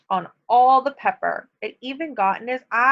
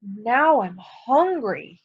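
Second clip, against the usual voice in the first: wolf voice; much slower than usual. Acted. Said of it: "he said".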